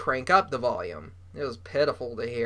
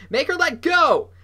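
loud high-pitched holler; 13 semitones higher, 8 dB louder than usual. A narrator's reading. Bully hollers at Noah about his biting sister, hollering. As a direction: holler it out, pitch leaping right up. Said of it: "Jasper Junior hollered at me".

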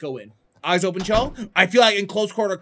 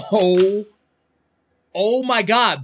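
normal talking voice

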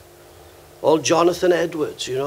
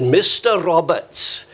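slow, drawn-out Welsh pronunciation; heavy Welsh accent; slower than usual. Retold or imitated. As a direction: imitate an old Welsh lady, heavy accent. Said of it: "a very heavy Welsh accent like that".

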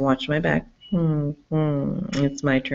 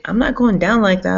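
mock defiance; 5 semitones higher, 5 dB louder than usual. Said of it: "he's like".

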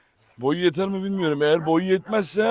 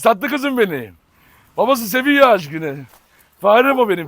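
pet talk; 3 semitones higher, 5 dB louder than usual. Real, not acted. Cooing at pet dog.

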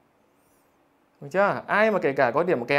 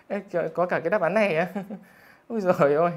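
laughing. Real, not acted. Teacher laughing at joke answer.

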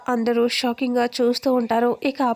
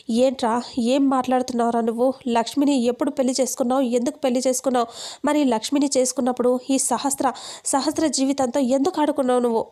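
fast, mildly angry questioning; angry scolding; faster than usual. Acted. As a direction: rattle the questions off with mild anger. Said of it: "కోపంగా అంటంతో". (కొంచెం కోపంగా, వేగంగా ప్రశ్నిస్తూ)

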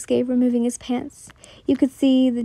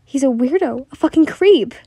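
angry outburst; 2 semitones higher, 5 dB louder than usual. Acted. Victim cursing her attacker.

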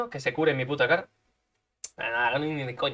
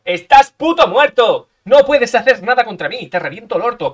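a slow, much higher, louder, hammed-up yell; a loud, slow, hammed-up threat to the enemy player; mock threat shout; 6 semitones higher, 10 dB louder than usual. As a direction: bellow the threat at the enemy, dragging it out.

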